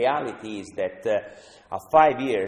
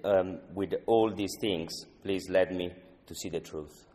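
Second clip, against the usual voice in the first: spoken prayer. Real, not acted. The speaker opens the recovery meeting with a prayer, earnest prayer. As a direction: pray sincerely to God before the group. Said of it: "to start with a pray".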